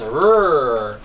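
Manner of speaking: low, growled rolling R like a robot; a low robot rrr for the kids. Pretend. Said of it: "And Red Robot says".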